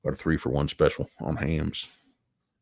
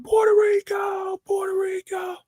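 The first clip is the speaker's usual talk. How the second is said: higher, slow hammed-up yell; shouted Puerto Rico chant; mock scream. Shown as a demonstration. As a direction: belt it like a party hype man. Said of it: "Just scream".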